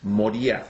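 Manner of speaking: "Moriah" said mo-ri-AH, accent at the end; "Moriah" with its last vowels stressed, not MO; late stress in Moriah. Shown as a demonstration. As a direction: repeat "Moriah" as a model, weight on the ending. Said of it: "se pronuncia".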